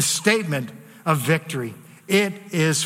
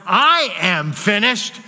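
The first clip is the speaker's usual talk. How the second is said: spent and beaten, stretched out; slow lament of defeat; slow defeated cry; slower than usual. Shown as a demonstration. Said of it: "Jesus does not cry out".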